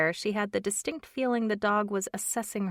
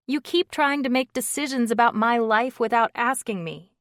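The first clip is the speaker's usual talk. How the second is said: put-on young woman voice; 5 semitones higher, 7 dB louder than usual. A narrator's reading. Brooke, annoyed.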